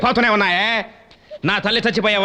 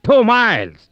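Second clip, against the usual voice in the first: shocked outburst; 4 semitones higher, 4 dB louder, slower than usual. Acted. Shocked at distance.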